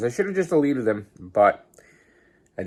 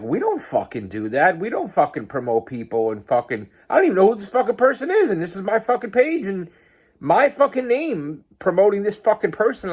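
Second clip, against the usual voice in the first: retold angry rant; 9 semitones higher, 3 dB louder than usual. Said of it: "I got mad".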